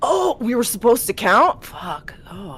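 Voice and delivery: put-on high, tipsy, drunken-sounding exclamation. Voicing a drunk character asked how many drinks he had: drunk, acting drunk. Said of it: "How many have you had?".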